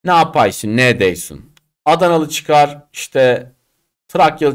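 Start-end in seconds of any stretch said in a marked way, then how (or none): 0.0-1.5 put-on Laz accent. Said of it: "Atıyorum bir Laz".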